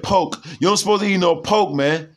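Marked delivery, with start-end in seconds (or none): 0.0-0.4 "poke" for pork, with no R; the rapper's pronunciation. Retold or imitated. Commentator quoting a rapper on eating pork, R-less "poke". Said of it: "how the rapper said". 1.4-1.7 "poke" with the R of pork left out; the rapper's pronunciation. Retold or imitated. Commentator warning listeners off pork, saying it as "poke". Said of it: "how the rapper said".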